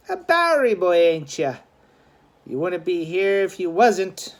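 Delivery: high, loud street-tough challenge; a young gang rival raising his voice over street noise; tough gang fighter. Acted. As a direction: call him out across the alley.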